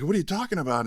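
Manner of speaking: high, baffled question, imitating Peggy. Peggy getting phone calls, high baffled question. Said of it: "She's like".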